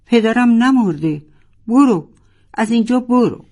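furious cry, ordering the friend away; angry shout. A narrator's reading. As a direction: yell at her to go away. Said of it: "فریاد زد".

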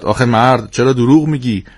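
mother calling out reproachfully; mild mock shout from the kitchen; called from the kitchen. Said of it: "مامان از توی آشپزخونه داد زد".

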